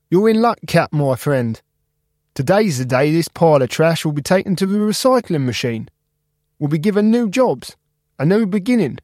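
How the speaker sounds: high, upbeat reassuring friend; Spark cheerful. Acted. Spark cheering up Cap about the recycling machine. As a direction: promise him a fresh start.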